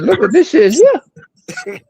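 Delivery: retelling Jake's words in a slow high put-on voice; imitated amazed drawl. Retold dog-follow moment, acted quote.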